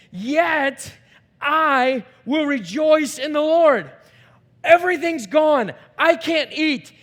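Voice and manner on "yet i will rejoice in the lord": louder, higher triumphant proclaiming; rejoicing. Shown as a demonstration. Preacher shows exulting rejoicing, triumphant. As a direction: proclaim it like a victory. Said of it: "This is the type of rejoicing".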